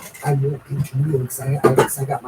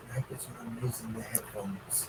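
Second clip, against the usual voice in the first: glitchy robotic headphone audio; 2 semitones lower, 18 dB quieter than usual. Real, not acted. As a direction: sounds like a distorted robot. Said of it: "You're talking like a robot".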